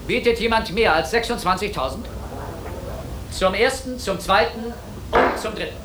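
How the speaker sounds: auctioneer. Real, not acted. Auction, calling out bids.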